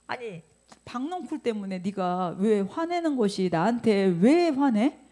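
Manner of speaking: slow, indignant question; exasperated God. Acted. God to Jonah, slow indignant question. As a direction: ask it slowly, offended.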